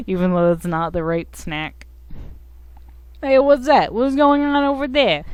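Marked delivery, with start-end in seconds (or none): 3.2-5.2 high, loud creature voice; Bunger voice. Acted. Giving Bopsicle the wrong snack's voice, high creature voice. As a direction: pitch it up and push it out. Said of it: "He gives it the Bunger voice".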